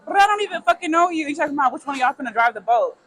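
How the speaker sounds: fast, high and indignant; heated. Real, not acted. Telling her friend about the rude guy, fast and outraged. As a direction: rattle it off in disbelief.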